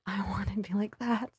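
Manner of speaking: half-whispered, breath of a laugh in it; hushed wish. Retold or imitated. Model recalling her wish as a shy teenager, hushed. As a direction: whisper it like a secret longing.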